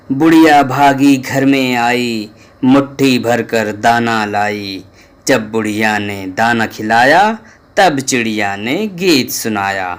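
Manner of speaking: put-on measured sing-song verse for kids; children's poem recital. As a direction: recite the rhyme to the class.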